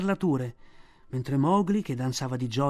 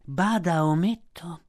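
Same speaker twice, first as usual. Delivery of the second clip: a smooth threat; python warning; 3 semitones higher than usual. A narrator's reading. Kaa warns Mowgli not to look like a monkey.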